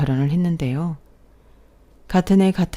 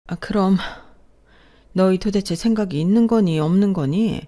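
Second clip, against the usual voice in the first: exasperated reproach, pitch raised; scolding parent; 4 semitones higher, 4 dB louder than usual. Acted. Parent to son about the unplanned pregnancy, scolding. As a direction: tell them off in raised, indignant tones.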